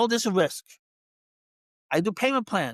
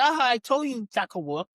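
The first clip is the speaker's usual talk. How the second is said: smug told-you-so; 4 semitones higher, faster than usual. Retold or imitated. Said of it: "he's basically".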